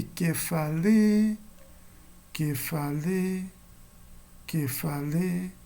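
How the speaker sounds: slow, sung "que falei" rising in pitch; pitched demo. Shown as a demonstration. Teacher comparing pitch rises, slow sung "que falei". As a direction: chant "que falei" slowly, the stress going up. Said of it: "sobe bem mais".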